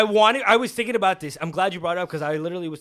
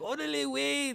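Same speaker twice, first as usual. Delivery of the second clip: prim high voice; 11 semitones higher, 4 dB quieter than usual. Retold or imitated. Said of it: "they're not very like".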